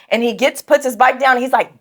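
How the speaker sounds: usual speaking voice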